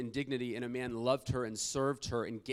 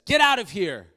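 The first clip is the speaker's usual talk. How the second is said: shouted, much higher and louder; retold yell; 8 semitones higher, 16 dB louder than usual. Woman yells at the man below her window, furious. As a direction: yell it down from the window to drive him off.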